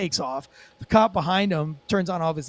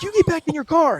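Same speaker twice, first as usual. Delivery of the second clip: much higher, heated retort; acted command; 10 semitones higher, 4 dB louder than usual. Cop arguing back at driver, acted heated command. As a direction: throw the order back, pitched high.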